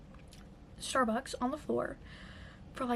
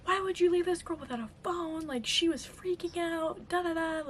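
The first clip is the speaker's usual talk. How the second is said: mock screaming, higher pitched; retold mild yell; 5 semitones higher than usual. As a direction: imitate an irate stranger's outburst, only mildly raised. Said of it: "this man starts screaming at my parents".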